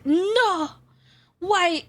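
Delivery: high, sharp "No!" of mock dismay; shocked no. Real, not acted. Streamer hears a cat woke someone, surprised. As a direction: gasp out a denial. Reacting to cat waking her.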